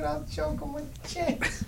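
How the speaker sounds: high, soft mimicry of a friend; mocking quote. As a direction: drag it out slowly in a teasing high voice. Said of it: "My man said".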